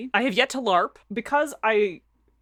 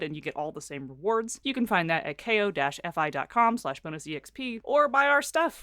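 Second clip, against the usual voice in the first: upbeat podcast sponsor read. Acted. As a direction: read the ad cheerfully.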